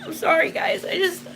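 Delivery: choked up, fighting back tears; real tears breaking through the words; tearful apology. Real, not acted. Apologizing to viewers mid spirit session, tearful. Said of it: "I'm really emotional".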